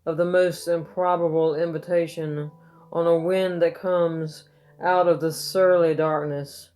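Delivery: solemn ode with lifted openings, falling line ends; poetry reading. Acted. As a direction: recite an elegy, pausing after each phrase. Reads own poem aloud.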